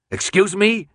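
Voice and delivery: sharp disbelief; incredulous. Acted. Jansen questions Thomas, sharply incredulous.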